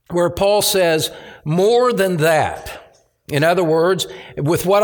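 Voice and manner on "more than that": slow, deliberate weight on "More than that"; emphatic. Retold or imitated. Preacher quoting Paul's words from verse eight, emphatic. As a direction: draw out "More" and land firmly on "that". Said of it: "profoundly emphatic in the Greek text".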